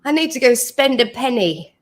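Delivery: put-on London accent, slightly hammed-up; amateur imitation of a London accent. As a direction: try out a Cockney accent. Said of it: "In your London accent".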